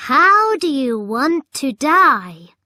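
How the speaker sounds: loud, high menacing command; Goblin King. A narrator's reading. Goblin King demanding an answer from the children. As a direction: order them like a cruel king.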